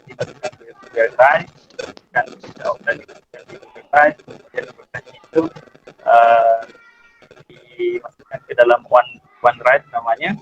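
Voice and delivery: audio cutting in and out; breaking up on a bad call line; choppy connection. Real, not acted. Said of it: "Suaranya putus".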